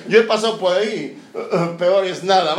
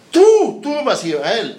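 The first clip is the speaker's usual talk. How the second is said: slow, louder, pointed; forceful retort; 3 semitones higher, 5 dB louder, slower than usual. Acted. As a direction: throw the accusation back hard. Elías throws the accusation back.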